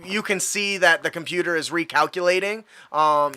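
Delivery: usual speaking voice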